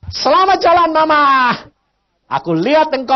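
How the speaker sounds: high, loud goodbye to his departed wife; loud joyful farewell. Retold or imitated. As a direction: call out the farewell brightly and loud. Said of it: "saya bilang".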